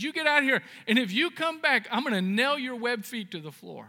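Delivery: mock angry shout. Fed-up clerk throws the duck out, mock angry shout. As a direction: bark it at the pesky duck. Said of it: "Kinda mean".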